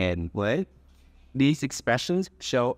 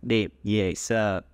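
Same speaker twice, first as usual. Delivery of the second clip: slow repeat after teacher; 2 semitones lower, slower than usual. Shown as a demonstration. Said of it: "let's repeat after me".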